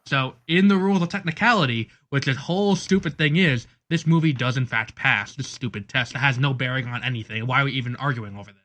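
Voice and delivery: loud, emphatic rant about a pointless technicality; exasperated arguing. Real, not acted. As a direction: argue the point hard, fed up with it. Exasperated arguing over a film test.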